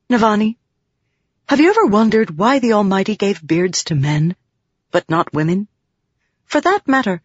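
a hint of an earnest, digressing researcher; lightly voiced distractible young scholar, musing. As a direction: wonder aloud as an easily sidetracked scholar.

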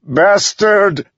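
very high, loud enraged scream; furious yell. A narrator's reading. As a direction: yell it out in grief-stricken rage. Grieving son curses father's attacker.

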